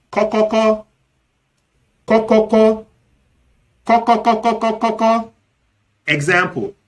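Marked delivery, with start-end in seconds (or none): 0.1-5.3 spoken knock-knock, high and even; knocking sound. Shown as a demonstration. Visitor announcing themselves at a door, imitated knocking. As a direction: rap out high, identical, staccato syllables.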